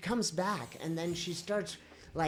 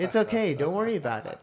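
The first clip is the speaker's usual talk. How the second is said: retelling the cashier's words while laughing, louder; laughing through the quote; 2 semitones higher, 6 dB louder, faster than usual. Retold or imitated. Telling a friend the cashier's reply, laughing. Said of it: "And she said".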